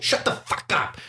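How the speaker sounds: unvoiced, hushed mock yell; retold scolding. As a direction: hiss the owner's command under breath. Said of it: "pulled and told".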